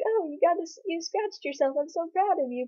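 telling a dog good job; praising the dog. Retold or imitated. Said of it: "so I was kinda like".

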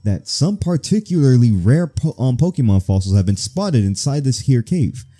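emphatic mission briefing; put-on commander's voice, projecting; bossy Rocket superior. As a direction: lay out orders to underlings with authority. Boss explains the mission.

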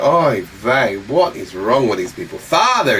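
a hint of a Jewish oy vey; lightly Jewish Yiddish sigh. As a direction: sigh it out, weary of the people. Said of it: "Jesus is Jewish, he's like".

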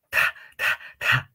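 TA blown out with a big puff after the T; exaggerated aspirated T. Shown as a demonstration. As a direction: overdo the air in TA. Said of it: "Yo estoy exagerando".

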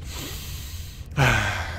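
long, heavy exhale; deep breath demo. Shown as a demonstration. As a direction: show one big breath out. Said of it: "just one big deep breath".

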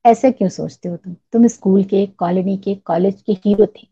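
a mild, even push on each word; every word stressed. A narrator's reading. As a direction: lean on each word of hero थे, one by one. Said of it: "एक एक शब्द पर जोर देते हुए".

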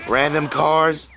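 high, drawn-out cry of alarm; real gamer's startled outburst; startled exclamation. Real, not acted. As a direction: call out the sudden hazard. Hit by surprise traffic in game.

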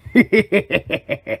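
short cartoon laugh; chuckling cackle. Boss as lunch rush nears, chuckling. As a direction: cackle after giving the order. Laugh after ordering to kitchen.

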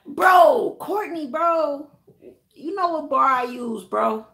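loud, high call to someone in another room. Real, not acted. Vlogger yelling for Courtney about the new shampoo bar, loud high call. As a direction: holler for her attention, worked up.

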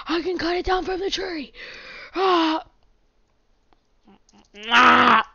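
high-pitched cartoon plumber voice, badly done; Mario. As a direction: exclaim it in a hammed-up, high game-character voice. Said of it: "I'm not good at Mario voices".

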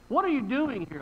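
pointed question as God; emphatic questioning. Retold or imitated. God confronting Elijah by name, emphatic questioning. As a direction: put the question squarely, in full voice.

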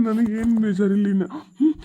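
speaking through acted tears; tearful father. Father-in-law moved by the groom's promise, talking through tears. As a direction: let a sob catch in the words. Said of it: "ಅಳಾಕ್ ಹೋಗ್ಬೇಡ್ರಿ ಮಾವಾರಿ".

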